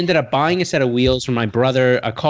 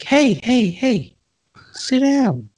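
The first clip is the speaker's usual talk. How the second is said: put-on old calm guy; 9 semitones higher, much slower than usual. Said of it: "this old, calm, cool guy".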